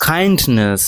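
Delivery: কাইন্ডনেস with the n closed, no vowel after it; correct pronunciation. Shown as a demonstration. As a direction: say কাইন্ডনেস with a silent stop on n. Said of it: "মানে নয় হসন হবে".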